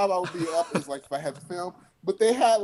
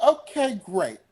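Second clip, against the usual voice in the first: catchphrase; 4 semitones higher, slower than usual. Retold or imitated. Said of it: "I have this saying where I say".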